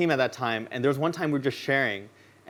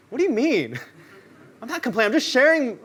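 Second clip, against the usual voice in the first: higher, laughing, indignant denial; defensive protest; 8 semitones higher than usual. Retold or imitated. Speaker denying he complains to his friend, higher defensive protest. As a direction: insist you're innocent, half laughing.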